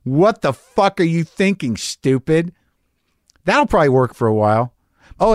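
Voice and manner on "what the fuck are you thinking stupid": slower, scolding yourself; a stern inner voice stopping you; harsh self-talk. Shown as a demonstration. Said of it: "When you're about to do something shitty".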